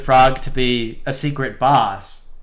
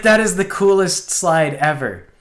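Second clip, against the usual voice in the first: put-on excited kid; 6 semitones higher, 4 dB louder than usual. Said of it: "way jazzed when he saw the frog slide".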